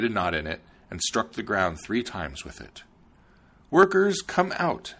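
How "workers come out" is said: loud, high summons to the workers; cried out. A narrator's reading. Princess summons the gnomes from the ground, loud high call. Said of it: "she cried".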